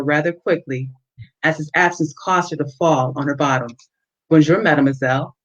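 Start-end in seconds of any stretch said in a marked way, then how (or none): 4.3-5.4 put-on French accent. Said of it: "he said in his French accent".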